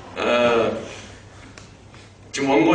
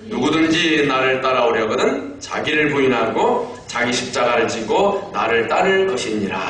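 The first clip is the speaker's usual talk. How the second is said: measured congregational verse reading; scripture reading aloud; 3 semitones lower than usual. Real, not acted. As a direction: read the verse out for all to join. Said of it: "마태복음 십육 장 이십사 절 같이 읽습니다". (함께 읽는 성경 봉독조)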